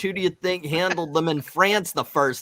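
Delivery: indignant rant breaking into laughter; a put-upon hero losing his temper; angry captain. Acted. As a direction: fume at the insult, then crack up. Reads Captain Adam's comic dialogue.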